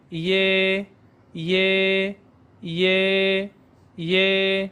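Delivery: یہ as a drawn-out ye; ie sound. Shown as a demonstration. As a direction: hold the e of یہ after a quick y. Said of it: "آئی ای کی آواز ہے". (یہ، آئی ای کی لمبی آواز)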